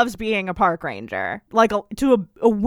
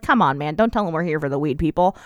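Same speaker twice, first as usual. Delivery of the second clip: lower, grumbling hunter, lightly voiced; a hint of a fed-up hunter, pitched lower; annoyed hunter; 6 semitones lower, faster than usual. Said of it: "And the hunter's like".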